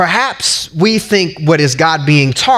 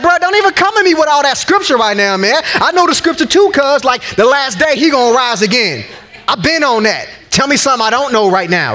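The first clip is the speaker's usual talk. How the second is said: sassy; 5 semitones higher than usual. Pretend. Martha brushing off Jesus' scripture.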